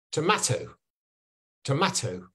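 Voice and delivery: tomato with a short flat "ma" vowel; tomato, Scottish "ma". Shown as a demonstration. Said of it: "In Scotland, they say".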